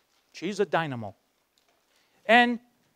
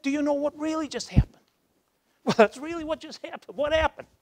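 higher and louder, eager retold back-and-forth; excited; 6 semitones higher, 5 dB louder than usual. Marty and Nick excitedly asking in the van. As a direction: rush it out, thrilled.

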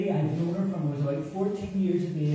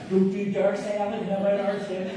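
higher-pitched indignant grandmother; Granny Lily; 6 semitones higher than usual. Acted. Granny warning off the family friend, high indignant scolding. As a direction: scold someone in defence of your beloved grandson. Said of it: "wee Lily would start".

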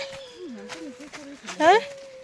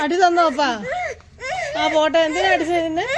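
consoling; 5 semitones higher, 3 dB louder than usual. Real, not acted. Consoling child who was hit.

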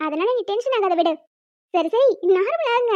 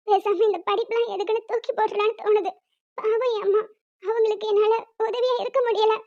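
tearful. Acted. Daughter lamenting she cannot help her mother, tearful. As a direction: hold back tears while worrying. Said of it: "அழாத Joe".

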